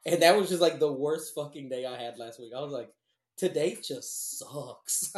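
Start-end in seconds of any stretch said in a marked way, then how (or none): 3.4-5.1 slow, dragging and glum; defeated. Retold or imitated. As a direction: sigh it out like the day is lost. Glum retelling of a bad day.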